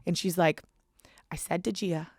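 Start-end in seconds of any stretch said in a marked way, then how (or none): 1.3-2.1 whispered New Jersey accent imitation; breathy New Jersey accent, lightly imitated; Teresa's New Jersey accent. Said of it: "in her fucking accent".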